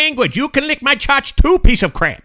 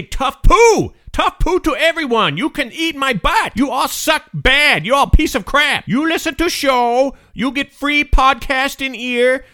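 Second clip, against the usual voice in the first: brash put-on accent rant. Guest ranting at angry listeners in broken-English accent. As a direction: tell off the listeners with smug bluster. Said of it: "I say".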